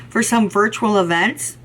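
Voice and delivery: hiccuping mid-sentence; hiccups. Real, not acted. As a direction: speak through the hiccups. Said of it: "got the hiccups".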